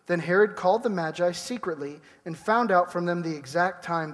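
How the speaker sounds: steady, measured Bible reading; scripture reading. Acted. Pastor reading Matthew to the congregation, measured scripture reading. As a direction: read the passage to the congregation.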